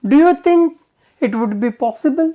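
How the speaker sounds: politely asking, rising high at the start; gently polite request. Shown as a demonstration. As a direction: ask with great courtesy. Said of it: "Very polite way of asking".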